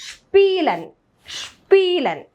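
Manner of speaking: "ഷ്പീലൻ" as shpee-len, long "ee". Shown as a demonstration. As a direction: start "ഷ്പീലൻ" on sh and stretch the ee. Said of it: "ഷ് എന്നൊരു sound ആണ് കൊടുക്കേണ്ടത്". ("ഷ്പീലൻ" ഷ് ശബ്ദത്തിൽ)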